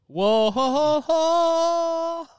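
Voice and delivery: rising high "whoa ho ho ho"; high mock exclamation. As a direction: squeal it up in pitch.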